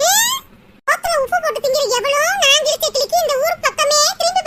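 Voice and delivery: mother bristling at news of her daughter-in-law; mother's voice. Acted.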